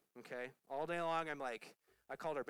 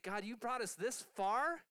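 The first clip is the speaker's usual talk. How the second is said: mock angry; 7 semitones higher, 5 dB louder, slower than usual. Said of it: "angry with God".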